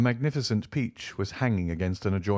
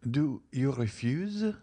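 slow, trembling question, pitched higher; tremulous; 6 semitones higher, slower than usual. Acted. Mercédès hurt as the Count refuses, trembling. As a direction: let the voice quiver as you ask. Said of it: "in a tremulous voice".

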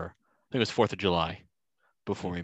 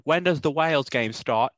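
a hint of an English accent, higher and louder; attempted English accent; 7 semitones higher, 6 dB louder than usual. English fan asking the American in the bar, light English accent. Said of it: "that's my best attempt".

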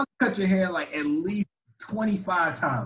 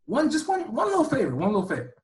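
pleading; 7 semitones higher, faster than usual. Real, not acted. Pleading for a favor.

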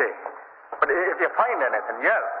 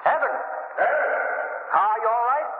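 shouting; 13 semitones higher than usual. Acted. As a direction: yell down the tunnel. Calling for lost partner.

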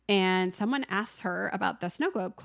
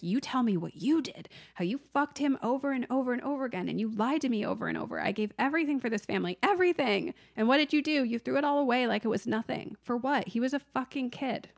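mock furious husband; 4 semitones higher than usual. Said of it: "he's like".

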